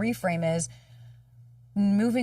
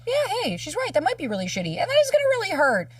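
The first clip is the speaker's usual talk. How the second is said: reassuring self-talk; 9 semitones higher, 5 dB louder than usual. Shown as a demonstration. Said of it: "Instead of going and saying".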